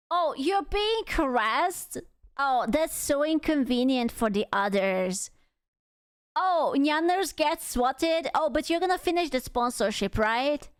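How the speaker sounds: sarcastic imitation of an uncaring boss; mock the dismissive replies with exaggerated fake concern; mock callousness. Streamer parodying the CEO talking to harassed talents, sarcastic.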